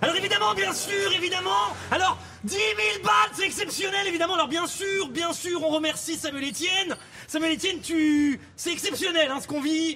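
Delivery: loud, high-pitched impression shout. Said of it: "précisément du Zerator qui crie".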